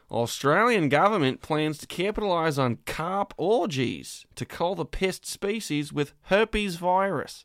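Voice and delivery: reading a headline in an Australian accent; lightly done Australian accent. Shown as a demonstration. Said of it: "I get to do my Australian accent".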